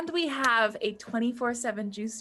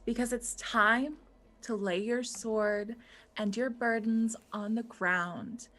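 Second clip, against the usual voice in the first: gentle healer voice; 3 dB quieter than usual. Acted. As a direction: guide them to peace gently. Cleric NPC comforting the heroes.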